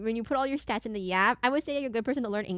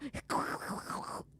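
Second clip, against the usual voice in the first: voiceless rasping breath noise; imitated monster noise; 11 dB quieter than usual. Streamer mimicking a game enemy, voiceless rasp. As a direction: imitate the man with soft rattling breaths. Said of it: "I hear the man go".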